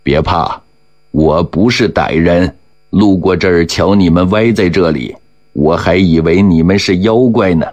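reassuring man. Acted. Man reassuring frightened girl.

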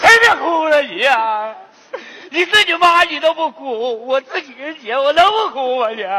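indignant, tearful retort; crying protest. Acted. Uncle refusing to stop mourning his sister, crying protest. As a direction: argue back through stagey sobs.

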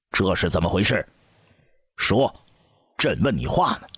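emperor's restrained angry demand; angry questioning. A narrator's reading. Emperor confronts the empress about the scene, stern angry questioning. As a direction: demand an answer with controlled, imperious anger. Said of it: "怒问道".

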